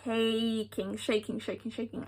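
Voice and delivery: fading repetition. Retold or imitated. Telling a listener how shaken she was, fading to almost nothing. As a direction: let the word die away as you repeat it. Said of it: "I am shaking".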